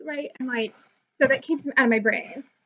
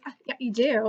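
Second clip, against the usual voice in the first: retold contradiction. Fan arguing back at the YouTuber, mildly contradicting. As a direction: casually insist after a small hedge. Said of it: "we went back and forth".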